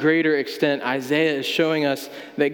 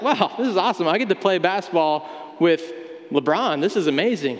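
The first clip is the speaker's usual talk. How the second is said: mock excitement; 3 semitones higher than usual. Fan meeting LeBron James, excited. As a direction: gush about playing LeBron. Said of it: "you're really excited".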